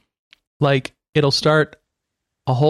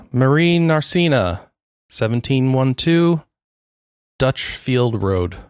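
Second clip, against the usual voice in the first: slow address reading; slower than usual. Pretend. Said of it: "Just, just read it to me".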